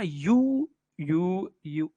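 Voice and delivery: यू drawn out and repeated with gaps; teacher sounding out a long यू; first syllable isolated. Shown as a demonstration. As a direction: hold the "oo" of यू, several times over. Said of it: "यूनिवर्सिटी को जब आप बोलेंगे ना".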